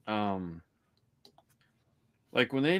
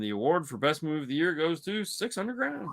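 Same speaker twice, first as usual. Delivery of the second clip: lightly played awards announcer, building higher; mock award presenter; 6 semitones higher than usual. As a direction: announce the winner with mock suspense.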